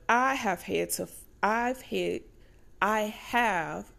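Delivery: false starts, restarting the phrase; stumbling stutter. Real, not acted. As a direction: stumble and restart mid-thought. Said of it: "excuse the stutter".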